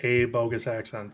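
"a" pronounced as a full "ay"; stress on "a". Real, not acted. Insisting to co-host it's only one accent, stressed "a". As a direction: lean on "a" as "ay" to mark it singular. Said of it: "That's singular".

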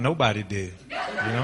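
laughing through the words; rueful laughing remark. Acted. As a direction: let a laugh run under the line. Joking about a lonely night.

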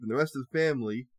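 said oddly; garbled reading. Real, not acted. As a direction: stumble over it strangely. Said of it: "I don't know why I said that so weird".

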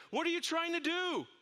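high, loud shout over a railing; the man shouts down to the dangling stranger. Acted. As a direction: call down to the man below in alarm. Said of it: "He shouted over the railing".

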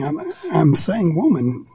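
woman said slowly as woh-man; drawn-out woman with a nasal a. Shown as a demonstration. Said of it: "what am I saying?".

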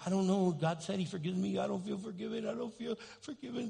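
mock a fretting, doubtful believer; worried. Voicing a doubting believer to the congregation, worried. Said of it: "you're constantly worried and going".

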